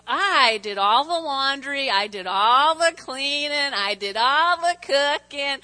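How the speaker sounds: slow, drawn-out stress on each ALL; emphatic listing. Real, not acted. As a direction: lay out each chore slowly and heavily. Emphatic list of her own chores.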